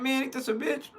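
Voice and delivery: very high-pitched disbelief; incredulous indignation. Retold or imitated. Boyfriend hearing about Keith, high incredulous reaction. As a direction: squeak out your outrage at the answer.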